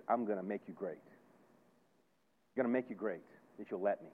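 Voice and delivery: low, softened voice of reassurance; gentle promise. Retold or imitated. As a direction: voice God's promise quietly and low. Voicing God's gentle promise after blunt words.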